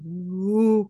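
long, imitated "woo" noise; giant's drawn-out woo. Host mimicking the giant in the scene, drawn-out wail. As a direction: stretch out a silly mimicked woo. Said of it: "the giant still going".

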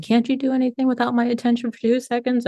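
high, sharp irritated retort; snapping. Retold or imitated. Mother snapping at daughter while packing, irritated. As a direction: snap at her, exasperated. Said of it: "And I snap at her".

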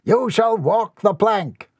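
high, slow pronouncement of doom; captain's cry. Acted. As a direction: sentence the pirate grandly, drawing it out. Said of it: "cried Captain Mortimer".

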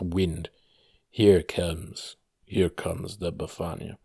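low, hushed spooky reading of a folk rhyme; eerie, low storyteller voice; creepy tone. Shown as a demonstration. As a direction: read it like a ghost story by candlelight, voice dropped low. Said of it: "I'm gonna read in a creepy tone for you".

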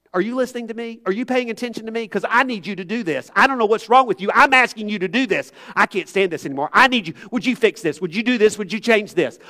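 a hint of a nagging husband, lightly voiced; husband only asking his wife for things, mildly mock-demanding. Shown as a demonstration. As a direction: play a needy husband rattling off demands. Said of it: "Do I need to illustrate that for you?".

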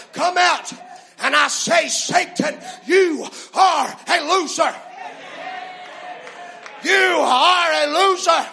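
shouted commands to rise and be healed; fierce commanding prayer. Real, not acted. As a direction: preach it at full force. Healing service rebuke.

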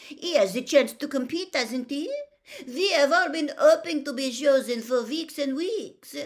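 high, loud, petulant protest; heated, high-voiced complaint; indignant outburst. A narrator's reading. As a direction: burst out passionately, pitched well up. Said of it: "burst out Fleur Delacour, stamping her foot".

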